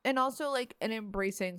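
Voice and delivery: talking around a mouthful of candy; chewing while talking. Real, not acted. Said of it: "sorry, I'm also eating".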